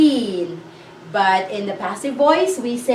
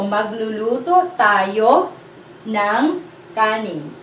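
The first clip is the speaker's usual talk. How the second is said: slow model; slower than usual. Shown as a demonstration.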